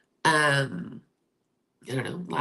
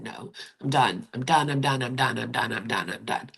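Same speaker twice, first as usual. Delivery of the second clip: retold insistent refusal; 4 semitones lower than usual. Recounting telling the attorneys no, insistent and running down. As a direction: rattle it off, running down at the end.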